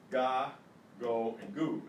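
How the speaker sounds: "ga, go, and gu" each with a hard G. Shown as a demonstration. Teacher showing students the syllables "ga, go, and gu", hard G. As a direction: sound out "ga, go, and gu" with G as in goat. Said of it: "This is the hard G".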